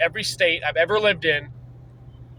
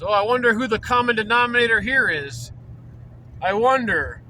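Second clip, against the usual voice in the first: mock insinuating; 4 semitones higher than usual.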